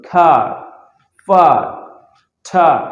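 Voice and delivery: "খার, ফার, ঠার" loud, each with a long "aa"; one loud, stretched word at a time: "খার, ফার, ঠার"; drawn-out vowel. Shown as a demonstration. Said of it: "এখানে কিন্তু টান দিয়েছিলাম".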